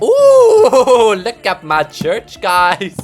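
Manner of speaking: high squealing laugh into slow delighted words; laughing ooh. Real, not acted. Admiring her finished church, squealing with laughter.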